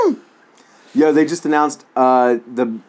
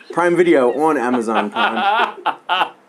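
laughing; 2 semitones higher, slower than usual. Real, not acted. Joking about the streaming service.

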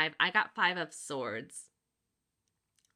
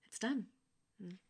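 soft, settled reassurance; restful; 9 dB quieter than usual. Acted. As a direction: say it softly, as if laying it to rest. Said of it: "there's a real rest".

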